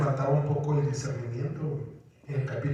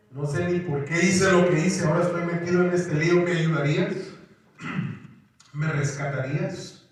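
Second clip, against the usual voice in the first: pleading prayer; 4 semitones higher, 4 dB louder than usual. Retold or imitated. Imagined prayer for help.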